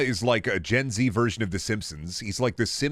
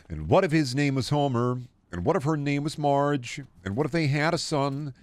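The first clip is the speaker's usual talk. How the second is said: slow mock storytelling; 5 semitones higher, slower than usual. Slow storytelling pitch of Simpsons.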